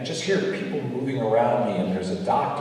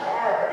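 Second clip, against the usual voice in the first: imitated dog bark, higher pitched; 10 semitones higher than usual. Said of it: "you know, he's barking".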